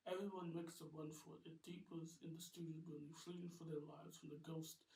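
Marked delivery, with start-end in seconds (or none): none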